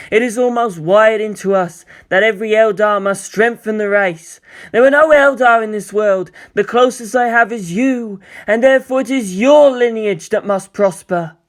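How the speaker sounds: lightly voiced urgent companion. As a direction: press him about his lineage. Eldar figure urges Shinji.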